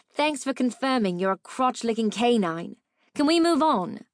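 sharp, annoyed retort; irritated snap. Acted. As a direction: snap back, fed up.

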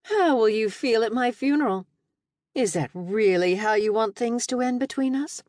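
high, hammed-up mock grief; theatrical sadness. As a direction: overplay the sorrow and regret. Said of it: "theatrical sadness and regret".

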